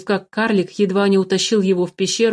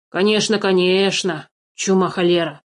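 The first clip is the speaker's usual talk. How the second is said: as hospitable as possible. Acted. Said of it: "как можно радушнее проговорил карлик".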